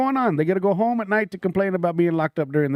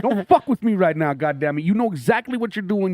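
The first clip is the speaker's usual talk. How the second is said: firm, raised scolding like a fed-up father; dad scolding mode; 4 semitones higher than usual. Retold or imitated. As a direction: tell him off like a dad who's had enough. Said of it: "I went from comedian to dad mode".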